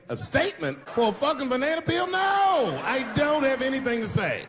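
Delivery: high, disbelieving no-comment; exasperated retort. Retold or imitated. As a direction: scoff at the reporters like it's absurd.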